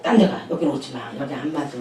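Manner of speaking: firm refusal. Retold or imitated. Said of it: "딱 그랬지".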